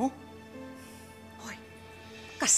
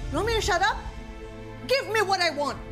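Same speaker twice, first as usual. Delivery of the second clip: angry. Acted. Defiant reply in quarrel.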